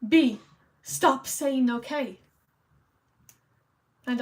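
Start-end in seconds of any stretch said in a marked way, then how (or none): 0.1-2.2 louder, drawn-out mock telling-off; mock scolding. Viewer telling streamer off for saying okay, mock scolding. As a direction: playfully order it, landing hard on the first word. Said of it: "You can say".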